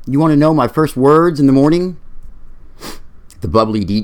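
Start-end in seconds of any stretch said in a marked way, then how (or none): 0.1-2.0 lightly voiced Bronx accent; a hint of Bronx. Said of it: "A voice with a Bronx accent replied".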